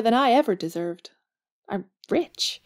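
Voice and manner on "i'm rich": a delighted little whisper; whispered secret. Acted. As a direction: breathe it out like a happy secret. Jo savoring her inheritance.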